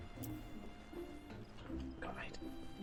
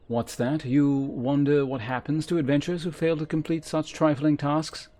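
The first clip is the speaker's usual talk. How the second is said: voiced game mentor, formal and measured; stern quest giver; 5 semitones higher, 5 dB louder than usual. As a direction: read it as a haughty trainer addressing a recruit. Same voiced quest giver continues.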